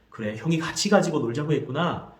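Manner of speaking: put-on calm echo of the child's words; mother showing she understood; mother's empathetic echo. Shown as a demonstration. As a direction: repeat it back gently. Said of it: "그래, ... 했구나".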